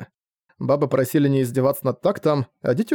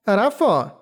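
creature cry; 7 semitones higher than usual. Acted. Creature asks curiously.

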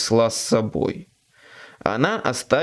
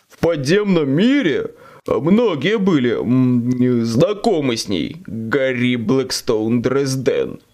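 devil. Acted. Demon speaks to Harry.

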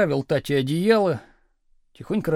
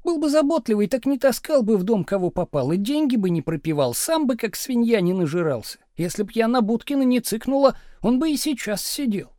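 higher, louder, nagging wife in full rant; scolding wife; 6 semitones higher, 3 dB louder than usual. A narrator's reading. Wife scolding husband for drinking and bad friends, in a higher, louder voice. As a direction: lash out at him, word after word.

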